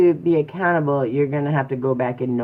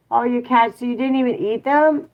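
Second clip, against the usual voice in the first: surprised exclaim; 10 semitones higher, 5 dB louder than usual. Real, not acted. Reacting to a viewer comment.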